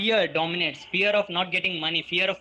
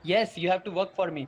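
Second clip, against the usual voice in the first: plain-spoken, decided acted answer; firm confirmation; faster than usual. Rich dad laying down his condition to the boys, firm. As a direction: confirm it as a settled statement.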